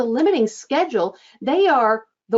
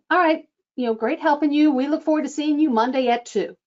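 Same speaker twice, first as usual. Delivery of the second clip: "All right, you know, great helping you" falling and settled; closing statement; 5 semitones higher than usual. Shown as a demonstration. Coach modelling the close of a phone call, falling tune. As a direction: end the call on a firm downward note. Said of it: "That's a statement".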